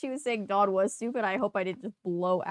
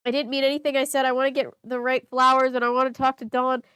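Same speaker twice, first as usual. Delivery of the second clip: faster and louder, pleading; more urgent reread; 3 semitones higher, 5 dB louder than usual. Shown as a demonstration. Reader redoing the apology line, faster and more urgent. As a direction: push the apology out in a rush. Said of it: "rereads the line".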